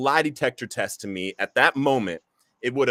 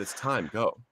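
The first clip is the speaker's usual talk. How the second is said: soft whisper; 6 dB quieter, slower than usual. Retold or imitated. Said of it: "he just repeats himself".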